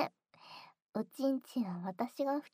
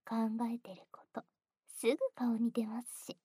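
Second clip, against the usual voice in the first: knowing ear whisper. Acted. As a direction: whisper it with amusement.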